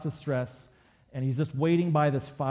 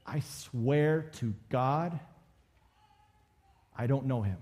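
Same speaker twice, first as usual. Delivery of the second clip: slow, drawn-out oath, then a pause; solemn sworn denial; slower than usual. Retold or imitated. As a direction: lightly act a deliberate, weighty denial. Voicing Peter's final sworn denial.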